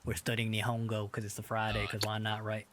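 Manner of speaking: casual, put-on Southern US twang; put-on Southern accent. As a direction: introduce yourself in a playful Southern accent. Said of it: "this ain't my real accent".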